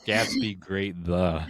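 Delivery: slow reversed title; backwards speech. Shown as a demonstration. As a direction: say the title back to front, slowly. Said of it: "I would have said that was".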